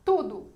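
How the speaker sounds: "Tudo" with a loud, strong first syllable; stress on TU. Shown as a demonstration. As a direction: hit the "Tu" in "Tudo" hard, let the end fall. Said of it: "Qual é a tônica mais forte?". ("Tudo" com a primeira sílaba bem forte)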